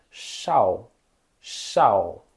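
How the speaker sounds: chau with a curled sh; Mandarin shao. Shown as a demonstration. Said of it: "Se for S H".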